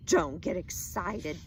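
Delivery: slow, loud, scornful repeat; wife mocking husband's advice, indignant; indignant echo. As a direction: throw his words back at him. Wife echoes him indignantly.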